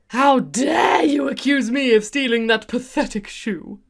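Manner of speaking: slow, indignant shout in a put-on voice; outraged Nina voice. Vlogger voicing Nina accusing Anna, indignant shout. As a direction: spit it out as the offended sister.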